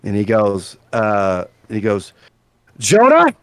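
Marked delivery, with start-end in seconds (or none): 2.8-3.3 loud, high-pitched indignant scolding; very angry. Acted. Small-headed man scolds Jonah over spiders, loud and very angry. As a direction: shout an outraged complaint, drawing out the words. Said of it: "a very angry, small-headed individual".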